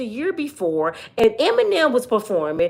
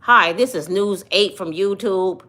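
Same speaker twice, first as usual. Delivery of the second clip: mock news anchor; 5 semitones lower than usual. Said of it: "I don't do that".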